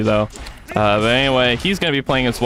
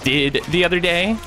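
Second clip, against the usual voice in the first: put-on forced, struggling Valley Girl; 3 semitones higher than usual. Shown as a demonstration. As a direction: strain into a mock Valley Girl. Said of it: "forced and struggling".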